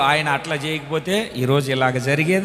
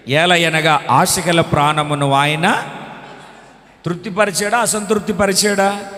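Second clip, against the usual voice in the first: scripture reading. Acted. Preacher reading the Bible verse aloud, solemn.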